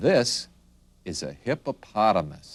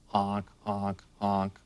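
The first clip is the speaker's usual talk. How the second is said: softer, evenly spaced honks; goose honks; 5 dB quieter, slower than usual. Shown as a demonstration. Teacher asking children to see the goose, soft honking. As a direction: honk softly like a goose. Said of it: "honk goes the goose".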